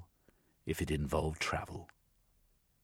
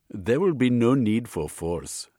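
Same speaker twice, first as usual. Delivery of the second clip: words bitten off, loud and high; spat out like a curse; 6 semitones higher, 8 dB louder than usual. A narrator's reading. Gandhi sneering at the army question, spitting out force. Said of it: "enunciating the word as if it was a curse".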